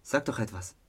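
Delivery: soft, halting love confession; bare your heart, unsure; nervous confession. Acted. Eron confessing love to his best friend, halting.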